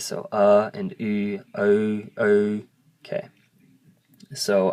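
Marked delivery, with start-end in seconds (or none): 0.3-2.6 uh then oo, blending into oh, oh; careful teacher drill; Hmong W vowel drill. Shown as a demonstration. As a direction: step through the blend for practice. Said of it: "So practice it".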